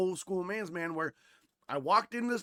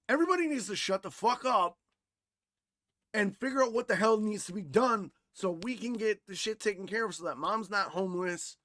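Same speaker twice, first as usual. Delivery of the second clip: retold fed-up order, pitched up at first; fed up, taking charge of everyone; exasperated outburst; 3 semitones higher than usual. Son scolding his grieving family, exasperated.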